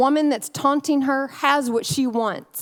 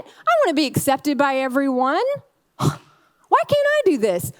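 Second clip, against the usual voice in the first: high, pleading complaint with sighs; exasperated longing with a sigh; whiny Hannah; 3 semitones higher than usual. Retold or imitated. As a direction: whine to God like a fed-up wife. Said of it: "you're like".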